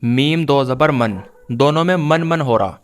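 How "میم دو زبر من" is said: measured spelling landing on من, final n sounded; tanween with sounded n. Shown as a demonstration. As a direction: spell میم دو زبر, then say من as "man" with a clear n. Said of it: "نون ساکن کی آواز نکال کر پڑھنا".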